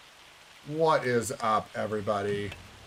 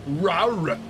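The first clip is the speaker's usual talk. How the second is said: playful rawr; 5 semitones higher than usual. Pretend. Playful growl at Buddha.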